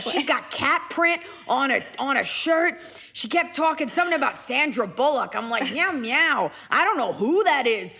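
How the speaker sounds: streetwise cat spinning its tale; Gracie. Acted. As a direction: play an indignant stray cat. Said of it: "This is Gracie".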